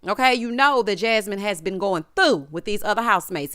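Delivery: through said with weight, falling; stress on through. Shown as a demonstration. Recapping reality TV for viewers, stress on through. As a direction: lean on the word through. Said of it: "And yes, I said through".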